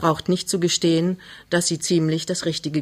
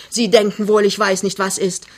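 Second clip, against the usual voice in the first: undeterred; 3 semitones higher than usual. Acted. Mother accuses the suitor, undeterred and insistent. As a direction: press on over his objection. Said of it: "sagte die Frau unbeirrt".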